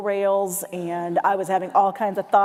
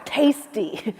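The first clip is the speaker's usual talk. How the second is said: hungry moose; slower than usual. Pretend. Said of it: "it seemed like he kinda cocked his head".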